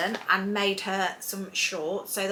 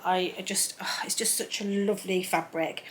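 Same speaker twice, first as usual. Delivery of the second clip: adoring whisper. Real, not acted. To viewers about her favourite fabric, an adoring whisper. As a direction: breathe it out fondly in a whisper.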